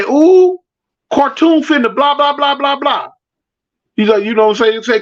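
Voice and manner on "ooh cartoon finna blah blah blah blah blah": mock the kid's singsong gossip; imitating young girl. Voicing his future wife as a kid hyping the crowd, high and teasing.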